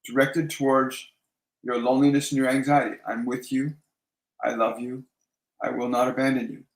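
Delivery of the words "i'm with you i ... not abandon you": soft reassurance, phrase by phrase; gently soothe, pausing after each phrase; slightly lowered, tender and steady; gentle, mindful. Shown as a demonstration. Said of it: "just gently and mindfully speak those words".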